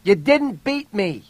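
slow, high defiant yell; loud, defiant call; strong-voiced yell. A narrator's reading. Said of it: "she yelled in a strong voice".

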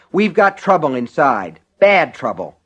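urgent. Acted. Urgent warning after shout.

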